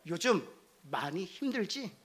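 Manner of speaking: soft, slow, tender question; gentle comforting. Acted. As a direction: comfort someone who is struggling. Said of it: "이 언어예요". (부드럽고 천천히 위로하듯)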